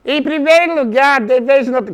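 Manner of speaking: high, nasal buzzing pedant; pompous philologist with a piercing high voice; irritating mosquito voice. Acted. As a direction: whine it like a mosquito buzzing in your ear. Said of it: "uma voz irritante que ele tinha".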